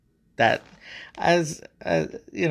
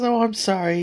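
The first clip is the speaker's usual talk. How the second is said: higher, amused apology; broken chuckles; 9 semitones higher than usual. Acted. God apologizing to Adam, leftover chuckles. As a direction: apologize while recovering from laughing. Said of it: "he said, through broken chuckles".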